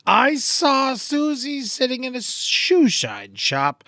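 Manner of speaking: slow, deliberate diction; slow tongue twister delivery; slow careful tongue twister. Shown as a demonstration. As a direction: spell out each sound slowly. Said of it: "tongue twister read".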